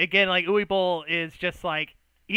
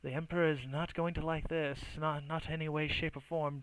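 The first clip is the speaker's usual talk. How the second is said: sighing resignation; 3 dB quieter than usual. Acted. Lord foreseeing the Emperor's displeasure, sighing and softer. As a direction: heave an oh, then drop softer. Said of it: "kind of sighs a bit and he goes".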